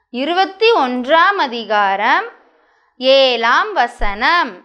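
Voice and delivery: slow, measured recitation with drawn-out phrase endings; verse read-aloud. Shown as a demonstration. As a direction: read it out phrase by phrase for children to follow. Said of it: "மறுபடியும் ஒரு தடவை வாசிச்சு காமிக்கட்டுமா". (குழந்தைகளுக்கு நிறுத்தி நிதானமாக வசனம் வாசித்தல்)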